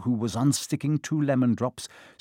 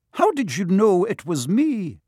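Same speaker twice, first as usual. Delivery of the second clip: higher, crisp stern Scottish teacher; a prickly old witch caught out, higher; startled stern witch, pitched up; prim Professor McGonagall; 7 semitones higher, 4 dB louder than usual. Acted. McGonagall voiced by narrator.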